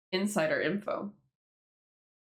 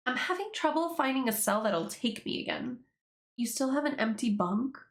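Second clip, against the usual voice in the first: higher-pitched, unsure put-on character voice; amateur voice-acting, pitched up; attempted character voice; 5 semitones higher than usual. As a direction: play the new cellmate in a lifted voice. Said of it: "I don't know how to do this voice".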